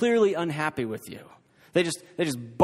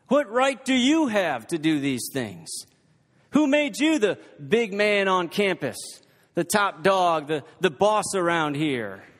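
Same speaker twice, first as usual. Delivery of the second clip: mocking challenge; 3 semitones higher than usual. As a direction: taunt him like a bully picking a fight. Preacher voices hostile religious leaders.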